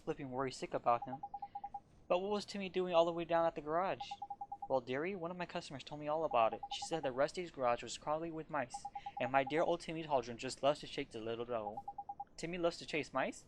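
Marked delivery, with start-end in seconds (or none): 4.7-11.8 put-on doting old cat lady. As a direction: coo over the tired cat like a baby. Layla explains.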